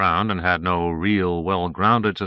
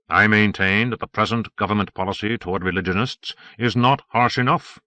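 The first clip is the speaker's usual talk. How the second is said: lightly voiced Padre, emphatic; mildly declamatory cleric making his case; argumentative Padre; 3 dB louder than usual. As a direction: hold forth in firm disagreement. Padre arguing in the booth.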